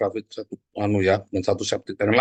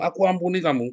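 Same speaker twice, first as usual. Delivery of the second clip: irritated forgiveness; 6 semitones higher than usual. Shown as a demonstration. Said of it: "Saking jengkelnya ya".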